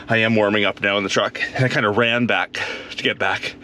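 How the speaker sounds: winded after running back; out of breath. Real, not acted. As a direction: talk while catching your breath. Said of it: "I'm out of breath now".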